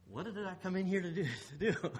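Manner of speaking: quick, mock-puzzled self-questioning. Man forgetting why he entered the room, mock puzzled. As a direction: act out a forgetful moment, hurried.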